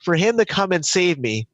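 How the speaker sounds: comic angry complaint to God; mock outraged. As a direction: whine it like a cheated man. Drowned man complains to God.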